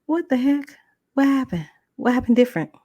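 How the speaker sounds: high, puzzled questions; baffled. Retold or imitated. Caller left wondering after the wife hung up, baffled. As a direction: act taken aback by the sudden change.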